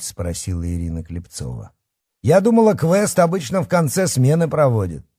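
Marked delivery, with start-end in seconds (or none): 2.2-5.1 high, puzzled objection; surprised. Acted. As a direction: voice rising in disbelief. Counselor questions the early quest.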